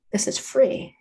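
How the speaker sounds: this is free with the TH said as an F, free for three; Cockney voice, three said as free; Cockney accent. Shown as a demonstration. Teacher showing how a Cockney says the number three, Cockney accent. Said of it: "gonna become F sounds".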